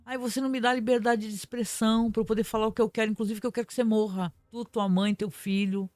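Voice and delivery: high, whiny mock complaint; mock self-victimizing. Mimicking bigots who claim victimhood once hit back, mock plaintive. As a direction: play the wounded victim, mockingly. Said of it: "se vitimizam".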